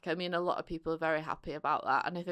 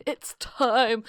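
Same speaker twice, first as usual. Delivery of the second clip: higher, louder announcing call; 5 semitones higher, 7 dB louder than usual. Retold or imitated. Imitating actor knocking on characters' doors, calling out. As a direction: call it out like big news at the door. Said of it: "being like".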